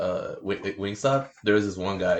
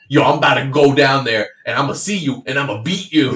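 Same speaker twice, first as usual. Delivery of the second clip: louder threatening caller; mock threat; 4 semitones higher, 9 dB louder than usual. Caller threatening to come down to the store, loud. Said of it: "He's like".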